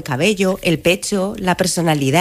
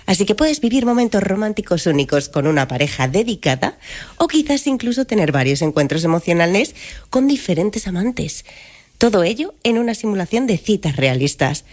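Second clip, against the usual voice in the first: AI voice. Acted. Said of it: "voz de inteligencia artificial".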